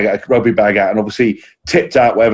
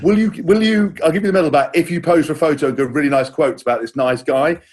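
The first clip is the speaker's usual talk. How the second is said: mocking the finder; 4 semitones higher than usual. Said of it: "That was".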